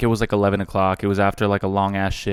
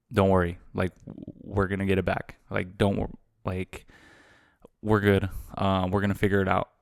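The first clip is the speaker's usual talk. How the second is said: reassuring dad; 5 dB quieter than usual. Retold or imitated. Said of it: "He was literally like".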